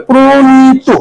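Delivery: "প্রণীত" drawn out as pro-nee-to; pronunciation demo. Shown as a demonstration. Teacher explaining the o-sound, "প্রণীত" said syllable by syllable. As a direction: stretch each vowel of "প্রণীত", with o after pr. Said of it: "ওকার উচ্চারণ হবে".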